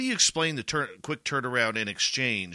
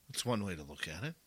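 dry skeptical; 6 semitones lower, 11 dB quieter, faster than usual. Real, not acted. Skeptical reply to answer.

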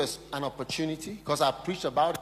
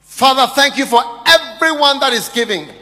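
loud, high preaching cry; fervent prayer; 9 semitones higher, 13 dB louder than usual. Real, not acted. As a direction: pray it out at full force. Fervent prayer over offering.

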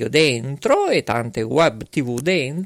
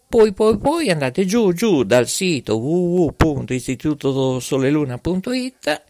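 voice giving out; 3 semitones higher than usual. Real, not acted. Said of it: "ma non ho più voce".

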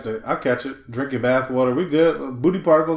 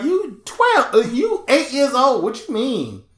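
slow, higher, disbelieving; incredulous; 6 semitones higher, slower than usual. Real, not acted. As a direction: draw it out in disbelief. Mocking a kid's claim.

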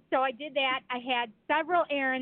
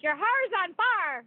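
slow, higher Southern drawl; imitated Southern accent; 4 semitones higher, slower than usual. Imitates the friend warning her, slow Southern drawl. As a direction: mimic "fire" drawled as "far". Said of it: "She'd be like".

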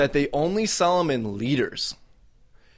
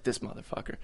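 whispered curse; 2 semitones lower, 13 dB quieter, faster than usual. Retold or imitated. Whispered plotting in story.

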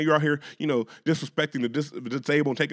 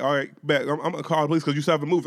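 retold threat; 6 dB louder, faster than usual. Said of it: "he's like".

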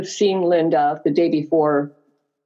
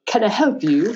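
put-on French accent; 3 semitones higher than usual. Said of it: "She had a thick French accent".

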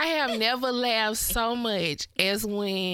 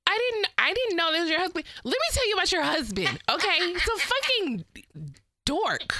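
imitating Kelly; 5 semitones higher than usual. Imitating Kelly fast and high.

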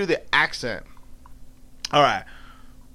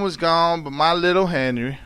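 measured Southern dialect narration; storytelling in dialect. A narrator's reading. Aunt Rachel recalling the auction, in measured Southern dialect. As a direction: tell it with pauses, in Southern dialect.

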